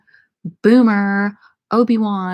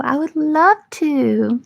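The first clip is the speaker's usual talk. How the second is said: higher, slower, eerie demon voice; creepy demon voice; 6 semitones higher, slower than usual. Pretend. Answering a viewer's request to be their sleep paralysis demon, in a creepy demon voice. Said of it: "will you become my sleep paralysis demon".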